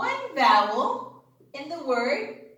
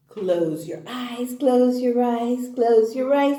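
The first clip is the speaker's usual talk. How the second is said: low chant stepping up and getting louder; building suspense; 3 semitones lower, 4 dB louder than usual. Pretend. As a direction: repeat it rhythmically, rising step by step toward a reveal. Building up to a reveal.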